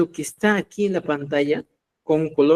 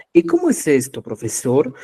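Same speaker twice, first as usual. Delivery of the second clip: student question. Pretend. Teacher voices a student question.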